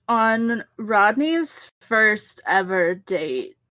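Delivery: slow, spaced-out stoner delivery; lazy stoner read of the line. Acted. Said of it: "I'm gonna drop out of stoner voice".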